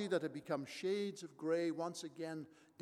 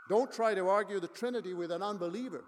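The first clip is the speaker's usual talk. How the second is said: louder, stress on Don't; firm warning; 3 semitones higher, 8 dB louder than usual. Real, not acted. Pastor warns the congregation against arguing, firm and louder. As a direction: warn them firmly.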